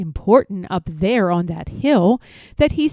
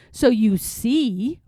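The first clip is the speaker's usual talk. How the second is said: slow, mildly smug boast; bragging; slower than usual. Acted. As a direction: lean back and show off. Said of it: "bragged the rabbit".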